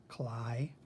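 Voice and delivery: "Cli" as its own syllable with a long I; long I sound. Shown as a demonstration. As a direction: sound out "Cli" to rhyme with "fly". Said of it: "makes that I sound".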